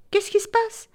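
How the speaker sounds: queen exclaims in a high surprised voice; queen finds nothing spun, high and surprised. Acted. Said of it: "la reine vint la visiter".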